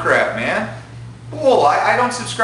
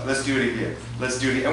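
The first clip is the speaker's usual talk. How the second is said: softer, casual coaxing; easygoing good loser; 4 dB quieter, faster than usual. Acted. Gamer who lost asks for a rematch, easygoing.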